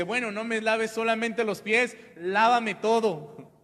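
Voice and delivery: an over-keen disciple asking for everything; eager Peter. Retold or imitated. Peter begs Jesus to wash him completely, eager and loud. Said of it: "Pedro después dice".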